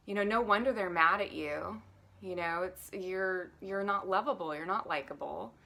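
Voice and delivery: mock your own harsh inner judge; a hint of a nagging critic berating yourself. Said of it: "we're often talking to ourselves like this".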